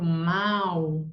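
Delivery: MAL held out on its own; stressed syllable. Shown as a demonstration. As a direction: isolate MAL and stretch it. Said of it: "o tom dela saiu mais alto".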